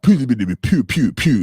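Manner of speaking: hard-hitting gibberish syllables, fired off; mock Putin speech. Streamer imitating how hard Putin goes in speeches, mock-forceful gibberish. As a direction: imitate forceful foreign speech with nonsense sounds. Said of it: "I know that dude be going hard".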